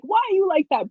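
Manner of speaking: mock exasperation. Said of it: "you're like".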